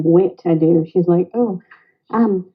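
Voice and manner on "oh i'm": imitated Southern US colloquial speech; American Southern accent. Guest imitates Wit about moving in, American Southern accent. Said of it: "do an American Southern accent".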